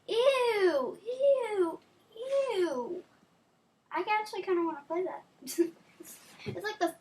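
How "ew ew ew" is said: disgusted. Real, not acted. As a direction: recoil at something slimy. Disgusted at worms.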